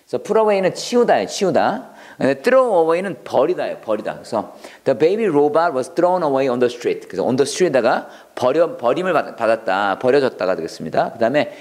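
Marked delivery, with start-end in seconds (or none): 4.8-7.1 slow, careful model sentence for learners; slow teacher read. Shown as a demonstration. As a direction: read it out slowly, word by word. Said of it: "model sentence".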